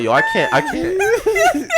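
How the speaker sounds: high, squeaking through held-in laughter; stifled laughter. Real, not acted. Son trying not to laugh at his father, squeaky. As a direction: barely keep it together. Holding back laughter at dad.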